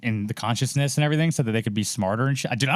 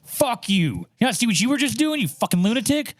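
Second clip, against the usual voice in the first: high, fast indignant yelling; retelling a clash with people who call him crazy, high mock fury; mock outraged rant; 8 semitones higher than usual. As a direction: fire back like they're the crazy ones. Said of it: "And I'm like".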